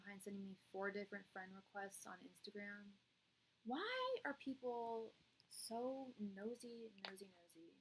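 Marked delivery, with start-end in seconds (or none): 3.7-7.7 whispered. Real, not acted. Muttered complaint.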